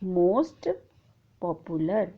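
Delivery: most popular drawn out slowly and quietly; slow, hushed model pronunciation; slow and soft. Shown as a demonstration. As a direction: stretch most popular for the class. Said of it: "तो हम कहेंगे".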